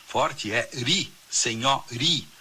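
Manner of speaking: forte é ri, senhori with ri slow and stressed; stressed syllable demo. Shown as a demonstration. Teacher showing listeners the stressed syllable ri, slowly. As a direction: draw out and lean on ri in senhori. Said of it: "a sílaba tônica de senhorinha".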